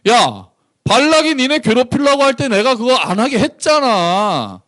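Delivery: high, indignant reminder; reproachful God. Acted. God reproaching Israel about Balak, high and indignant. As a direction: remind them hotly what you did for them. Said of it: "되게 실감나죠?".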